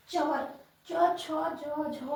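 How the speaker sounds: च drawn out slowly, tongue on the palate; च को तालु से धीरे बोलना; slow palatal demo. Shown as a demonstration. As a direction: press the tongue up for च, unhurried. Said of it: "वो तालु से उच्चारण होता है".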